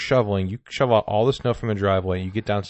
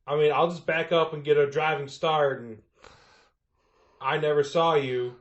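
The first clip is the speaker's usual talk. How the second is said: higher, casual veiled threat; snowplow driver; 5 semitones higher than usual. Acted. Plow driver threatening the resident, casual high voice. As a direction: float the threat in a light, raised voice.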